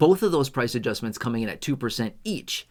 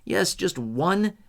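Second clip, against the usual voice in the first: infomercial voice; 7 semitones higher than usual. Pretend. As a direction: sell it like a TV infomercial. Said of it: "Do I sound like an infomercial yet?".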